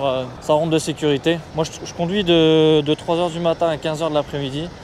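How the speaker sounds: loud voice outdoors in wind; shouting over wind. Real, not acted. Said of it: "avec le vent".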